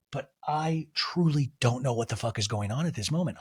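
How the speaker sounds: usual speaking voice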